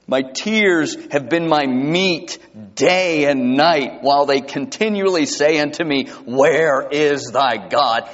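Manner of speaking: slow, solemn reading of the psalm; scripture reading. Acted. Preacher reading Psalm forty-two to his congregation, slow and solemn. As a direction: lay each line down with weight. Reads psalm aloud slowly.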